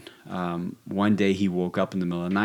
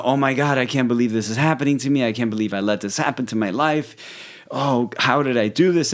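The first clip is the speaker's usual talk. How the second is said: retold panic; 4 semitones higher than usual. Retelling his friend's night scare, mock-panicked lament. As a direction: replay a friend's spiralling worry, mildly hammed-up. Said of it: "like, panicking".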